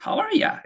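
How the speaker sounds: "How are ya" with you reduced to "ya"; casual "ya". Shown as a demonstration. Teacher illustrating casual speech, "ya" for you. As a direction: toss off "ya" lightly in place of you. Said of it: "casual하게 얘기를 할 때".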